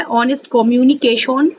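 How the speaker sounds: ऑनेस्ट कम्युनिकेशन with a Bengali accent, rounded o in कम्युनिकेशन; Bengali accent in Hindi. Shown as a demonstration. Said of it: "Bengali, अ, accent में बोल रही हूँ". (बंगाली लहजे में)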